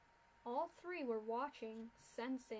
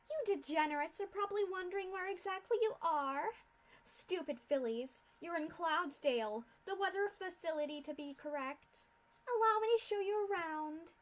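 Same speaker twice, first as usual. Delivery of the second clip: loud, higher, contemptuous mad scientist; haughty mad scientist mocking captives; sneering villain; 6 semitones higher, 7 dB louder than usual. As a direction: look down on these fools. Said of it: "Doctor Atmosphere villain speech".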